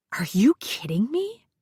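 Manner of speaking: sharp unvoiced hiss. A narrator's reading. Furious mother hissing at her friend so the boy can't hear. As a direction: hiss it through the teeth, no voice. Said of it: "Jess hissed".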